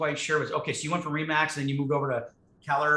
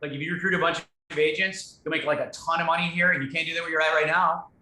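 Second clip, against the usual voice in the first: pushy salesman; 2 semitones higher, 3 dB louder than usual. Shown as a demonstration. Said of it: "what everybody does, which is totally wrong".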